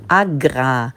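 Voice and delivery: "Agrar" low, with a heavy rolled R; stressed R. Pretend. Presenter correcting who made the statement, mock-rolled R. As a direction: hit the R in "Agrar" for comic effect. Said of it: "die Betonung liegt auf dem R".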